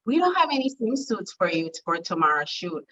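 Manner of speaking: lightly imitated French stylist speaking English; French English accent. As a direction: quote her with a hint of a French accent. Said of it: "in her little French English accent".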